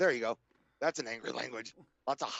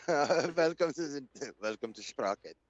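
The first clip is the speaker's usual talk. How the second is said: Sprockets host. Retold or imitated. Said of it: "shows like Sprockets".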